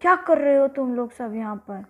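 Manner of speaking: quick, loud scolding as the giant; angry, loud. Acted. Giant confronting children in his garden, loud and angry. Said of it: "बहुत ज़ोर से गुस्से में बोला".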